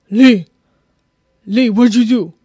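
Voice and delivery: loud, imitating an angry dad; mock-angry father demanding an answer; mad father. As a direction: call out sharply as the mad dad. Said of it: "he's always mad".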